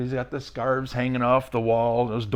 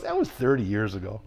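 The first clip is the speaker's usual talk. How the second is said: chuckling through the words; amused rock star laughing it off; laughing reply; 5 semitones lower, 3 dB quieter than usual. Retold or imitated. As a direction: let a laugh carry the line. Rock star's punchline, laughing.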